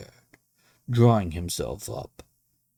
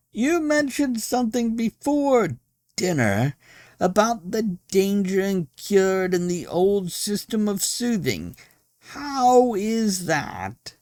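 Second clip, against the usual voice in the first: high, loud call; shouting over noise; 13 semitones higher, 6 dB louder than usual. A narrator's reading. Guest yelling to the host at dinner, loud. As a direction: shout into his ear over the din. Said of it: "screaming in his ear".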